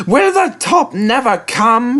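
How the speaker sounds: high, slow, tired voice; weary engine. Acted. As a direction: drag it out, worn out on the hill. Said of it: "he thought".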